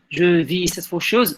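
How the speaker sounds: "vis" held slightly before "cette faucheuse"; pause after vis. Shown as a demonstration. Teacher offering a rhythm option, "vis" slightly held. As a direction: say "Je vis", linger briefly, then "cette faucheuse". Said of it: "c'est à la manière des rappeurs".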